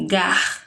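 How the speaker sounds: "gar" said alone as one clipped syllable; syllable pulled out for children; isolating the syllable. Shown as a demonstration. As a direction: cut "garfo" down to "gar".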